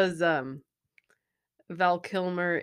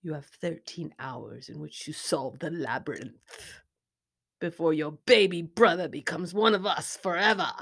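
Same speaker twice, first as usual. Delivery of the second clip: film villain quote. Acted. Quoting a movie villain for a guessing partner, lightly menacing. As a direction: deliver the deadline as a mild threat.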